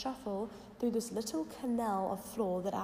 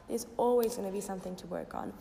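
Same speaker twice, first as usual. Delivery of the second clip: croaky voice. Real, not acted. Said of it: "my little bit of a croaky voice this morning".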